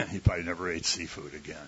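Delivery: quick line through a chuckle; laughing. Real, not acted. Preacher joking to the congregation, laughing. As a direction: toss off the joke, laughing. Joke about Jonah.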